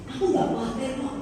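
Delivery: softly voiced unworried reply; quiet reassurance after the outburst; calm husband. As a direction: imitate an unruffled husband. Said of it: "dengan sangat tenang".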